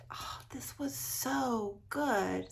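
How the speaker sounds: whispered rave. Real, not acted.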